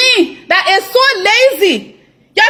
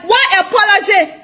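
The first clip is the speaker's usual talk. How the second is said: scornful question. Real, not acted. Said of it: "repeated scornful question".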